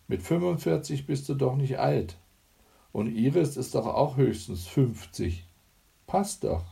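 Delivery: a grin in the voice, brushing mum off; cheeky grinning daughter. Acted. Isabel teases her mother with a grin: lightly voiced, playful.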